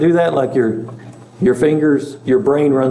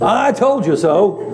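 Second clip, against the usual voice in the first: drawn-out, higher-pitched gloating; smug told-you-so; 6 semitones higher than usual. Acted. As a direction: rub it in, slow and high. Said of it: "I don't think that was Paul's tone".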